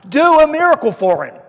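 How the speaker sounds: high, loud mock demand for a miracle; urging shout. The crowd demanding a miracle from Jesus, mock shout. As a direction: push him hard to prove it.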